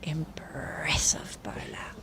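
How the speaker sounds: slow hushed whisper. Real, not acted. Whispered commentary near players.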